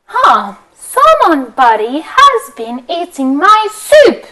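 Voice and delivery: lightly voiced mama bear, drawn out. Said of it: "Mama bear".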